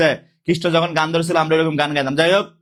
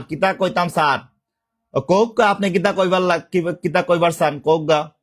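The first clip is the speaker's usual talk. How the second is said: Sylheti dialect, conversational; Sylheti উপভাষা. Shown as a demonstration. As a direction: talk back in everyday Sylheti. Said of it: "ঠিক আছে, সিলেটের ভাষা।". (সিলেটি টানে কথা)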